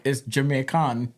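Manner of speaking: lightly put-on Jamaican accent. Shown as a demonstration. Rapper explaining the rhyme, light Jamaican accent. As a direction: land the last syllable as Jamaican "kon". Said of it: "I'm using my accent".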